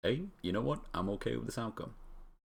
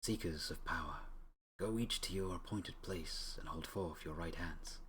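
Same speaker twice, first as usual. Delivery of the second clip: a lightly voiced solemn spirit, a touch softer; 5 dB quieter than usual. Game spirit addressing the heroes, lightly solemn. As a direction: intone it like an ancient oracle. Reads the rune spirit's lines.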